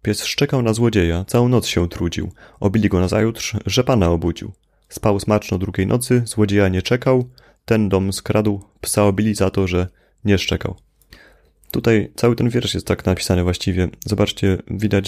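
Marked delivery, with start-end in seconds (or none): 0.0-10.8 lightly rhythmic reading of verse; fable recitation. Acted. A student reading Krasicki's fable to the class, lightly rhythmic. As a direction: tell the little fable with a storyteller's rhythm. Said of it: "Ona brzmi w ten sposób".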